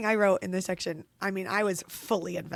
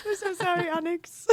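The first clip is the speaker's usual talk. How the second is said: laughing; 11 semitones higher, 6 dB louder than usual. Real, not acted. Laughing apology to the fox.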